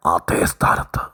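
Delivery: hushed emphasis on the turning point; dramatic whisper. Real, not acted. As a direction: whisper it like a secret. Dramatic hush in sermon.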